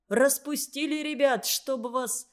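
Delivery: put-on a sudden angry yell at the kids; exploding shout. Young truck driver yelling at the children, angry shout. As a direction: bark it out in fury at the children. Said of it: "взорвался криком".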